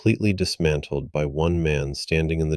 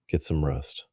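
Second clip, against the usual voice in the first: gently; 4 dB quieter than usual. Acted. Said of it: "he said gently".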